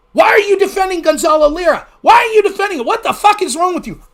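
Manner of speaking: a loud angry heckler's rant; mock angry critic. Streamer mimics critics shouting at him, angry.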